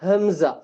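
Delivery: ஹம்சா started from the bottom of the throat; from deep throat. Shown as a demonstration. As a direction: begin ஹம்சா with a deep-throat glottal catch. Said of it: "அடித்தொண்டையில இருந்து அதனுடைய உச்சரிப்பு இருக்கணும்".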